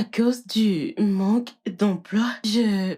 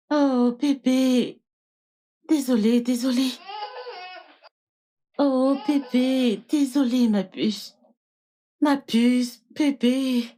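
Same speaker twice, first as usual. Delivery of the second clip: put-on soothing baby. Nanny comforting crying baby.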